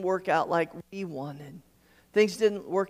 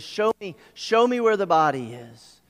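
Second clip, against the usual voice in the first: angry demand, raised voice; preacher voicing an angry command, louder; angry Jesus; 2 semitones higher, 6 dB louder than usual. Preacher retelling Jesus demanding to see Lazarus's body, angry. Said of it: "Jesus gets angry and says".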